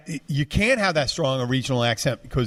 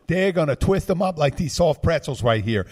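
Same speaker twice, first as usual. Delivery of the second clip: higher-pitched imitation of a Philadelphia guy talking; working-class Philadelphia accent; 4 semitones higher than usual. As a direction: lightly put on a working-class Philly accent. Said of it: "the working class Philadelphia accent".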